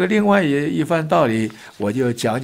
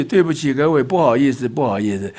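loud apology; 3 semitones higher than usual. Retold or imitated. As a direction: announce the blame loudly to the whole lift. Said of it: "他就很大声地说".

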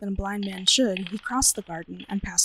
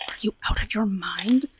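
urgent breathy whisper; low desperate voice. A narrator's reading. Hoichi urges the servant in a desperate whisper. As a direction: hiss it so the company won't hear. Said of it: "said in a low, desperate voice".

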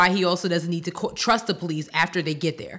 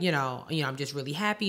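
sister explaining; 4 semitones lower, 6 dB quieter, faster than usual. Retold or imitated. Sister explaining her tears to son.

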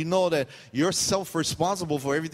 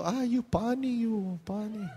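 higher, teasing pidgin tease with a laugh; 8 semitones higher, slower than usual. Retold or imitated. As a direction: laugh as you tease him.

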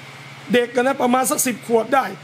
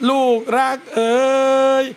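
tender call. Shown as a demonstration. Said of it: "ข้อที่ว่ากำชับเลยคือ".

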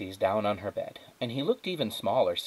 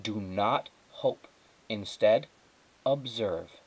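self-admonition; slower than usual. Acted. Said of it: "she told her heart".

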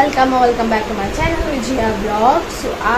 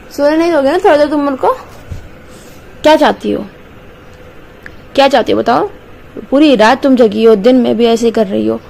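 mock scolding. Real, not acted. Tired mother scolds baby playfully.

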